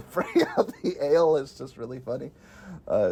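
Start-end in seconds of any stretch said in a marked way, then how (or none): 0.1-1.4 the quote repeated through giggles; laughing. Real, not acted. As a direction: say it while laughing at it.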